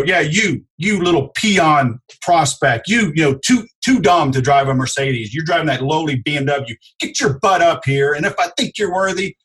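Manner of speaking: snooty, looking-down-your-nose salesman; mock condescending salesman. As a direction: talk down to the customer in jest. Arrogant salesman mocked.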